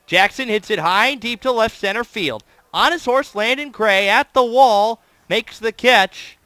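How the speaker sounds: play-by-play call building to the catch; excited call. Real, not acted. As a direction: call it like a possible home run. Play-by-play call of deep fly.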